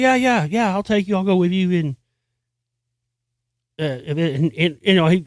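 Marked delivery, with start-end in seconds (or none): 0.0-1.7 higher-pitched, casual yes; easy agreement. Retold or imitated. Dad agreeing to take the kid to Rush, easy agreement. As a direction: lightly imitate an agreeable dad.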